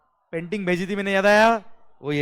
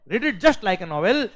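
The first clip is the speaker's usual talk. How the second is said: emphatic advice; 3 semitones higher, 6 dB louder, much slower than usual. Shown as a demonstration. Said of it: "मैं guarantee से कह रहा हूँ".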